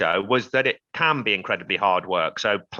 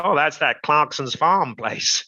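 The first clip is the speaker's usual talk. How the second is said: slower, lightly imitated Canadian accent; best Canadian accent; 3 semitones higher, slower than usual. Farmer retelling a railway man's remark, attempted Canadian accent. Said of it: "that's my best Canadian accent".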